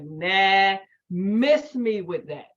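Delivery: loud "Nah," then drawn-out brush-off; dismissive attitude. Retold or imitated. Young woman refusing wifely cooking, dismissive attitude. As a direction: imitate your younger self waving it away. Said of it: "That was my energy and my attitude".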